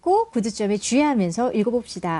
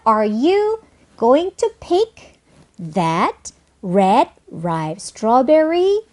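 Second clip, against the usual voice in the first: slow chunked reading, "strawberry" lifted at the end; rising yes-no question; much slower than usual. Shown as a demonstration. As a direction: finish "strawberry" on an upward question tune. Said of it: "상승하면서 끝마침 하죠".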